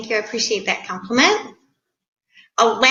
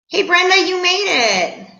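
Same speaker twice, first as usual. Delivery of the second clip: delighted greeting; 8 semitones higher than usual. Real, not acted. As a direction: greet her like a long-lost friend. Host greeting viewer again.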